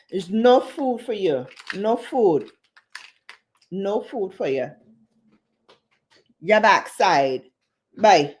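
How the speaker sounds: put-on island accent scolding the dog; Bajan-Panamanian accent. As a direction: tell off the dog in a Caribbean accent. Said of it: "I love when I do an accent".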